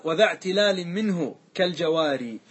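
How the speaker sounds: slow, measured chanting of a verse; a teacher intoning a grammar verse; verse recitation. Acted. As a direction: recite the line of the poem deliberately. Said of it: "ثم قال".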